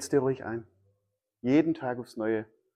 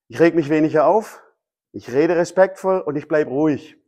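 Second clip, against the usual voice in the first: louder, insistent self-coaching; self pep talk; 5 dB louder than usual. Acted. Driver bracing for that one moment, insistent self pep talk. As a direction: firmly talk yourself into staying calm. Repeats resolutions while bracing himself.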